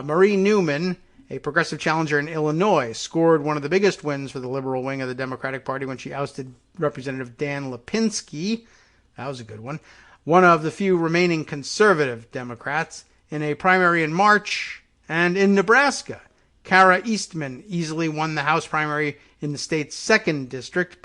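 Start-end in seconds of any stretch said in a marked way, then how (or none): 0.0-8.6 reading an article out with emphasis; news read-aloud. Real, not acted. 10.2-21.0 reading an article out with emphasis; news read-aloud. Real, not acted.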